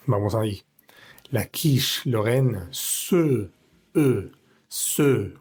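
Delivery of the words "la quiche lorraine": "La quiche lorraine" said slowly and carefully; closed-mouth e. Shown as a demonstration. Teacher reading the recipe title to learners, slow. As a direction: read "quiche lorraine" slowly, French style. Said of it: "con la boca cerrada".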